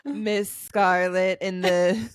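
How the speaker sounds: lightly voiced slow femme fatale from Clue; slow, teasing murder-mystery voice; sultry Miss Scarlet. Shown as a demonstration. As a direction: draw each word out, mystery-novel style. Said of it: "in the game of Clue voice".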